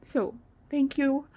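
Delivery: crying thanks to her viewers; tearful. Real, not acted. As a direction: thank them through real tears. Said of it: "with all the tears".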